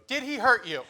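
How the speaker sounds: high, concerned put-on voice; worried nurse. Nurse asking his wife whether he hurt her, high and worried. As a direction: lean in protectively toward the wife. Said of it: "point it at my wife and go".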